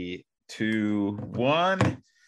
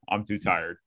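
laughing title read; 6 semitones lower, 8 dB quieter than usual. Retold or imitated. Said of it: "episode title".

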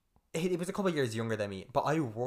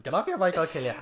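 higher, louder threat yelled at the cyclist; retold shout; 4 semitones higher, 5 dB louder, faster than usual. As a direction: yell it at the bully on his bike.

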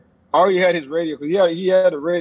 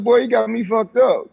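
raised, high-pitched mock confrontation; retold angry outburst; 5 semitones higher than usual. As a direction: fire it back at him, pitch up and indignant. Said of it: "So I was like".

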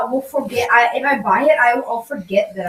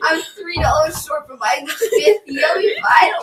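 mock whining; 5 semitones higher, slower than usual. Mock whining about vinyls.

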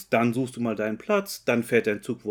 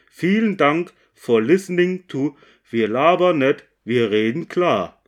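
flight attendant; 2 semitones higher, 7 dB louder than usual. Pretend. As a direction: thank the passengers like cabin crew. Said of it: "Bitte schnallen Sie sich an".

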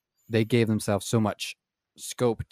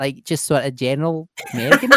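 lightly mocked unsure answer, pitched up; hesitant candidate; 4 semitones higher than usual. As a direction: imitate a floundering candidate through a laugh. Retold girl answering, teller amused.

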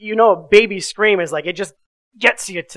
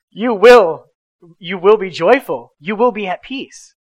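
louder, firm proclaiming of each will; emphatic declaration; 6 dB louder than usual. Retold or imitated. Father declaring over his screaming foster daughter, firm and loud. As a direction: declare it over the child like a blessing. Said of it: "I'm gonna make a declaration".

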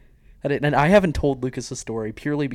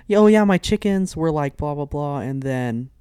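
bright-pitched chatter running down to a halt; chatty, then stopping dead; 3 semitones higher, 6 dB louder, slower than usual. Retold or imitated. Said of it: "just immediately like this".

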